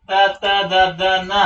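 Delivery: త, త, ద, ద, న through closed teeth; teeth-closed dentals. Shown as a demonstration. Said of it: "మీరు పళ్ళు మూసేసి". (పళ్ళు మూసి త, త, ద, ద, న)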